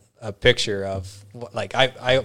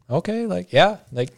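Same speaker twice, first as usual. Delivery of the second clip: polite brush-off; 3 semitones higher, faster than usual. Retold or imitated. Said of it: "I'm trying not to extend this conversation".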